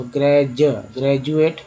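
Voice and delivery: "ग्रेजुएट" with the D sounded as a J. Shown as a demonstration. Teacher showing students that D can sound like J, instructive pronunciation demo. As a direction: break off after "ग्रेज", then say the whole "ग्रेजुएट". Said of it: "ड, द के अलावा ज भी बोलते हैं".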